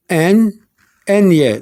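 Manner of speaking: "N, N-ye", first the letter, then the glide; "N" alone, then "N-ye" with a y-glide; pronunciation demo of ñ. Shown as a demonstration. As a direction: model "N, N-ye" slowly for a learner. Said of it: "N-ye is pronounced".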